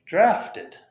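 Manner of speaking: "Drafted" high, ending in a clear -id. Shown as a demonstration. Teacher modeling past tense for Natalie. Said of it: "T becomes I D".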